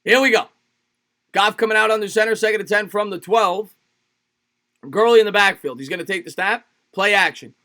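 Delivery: energized football announcer; running broadcast commentary; live play-by-play. Acted. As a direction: call the play as it unfolds, lifting under pressure. Calls the game live.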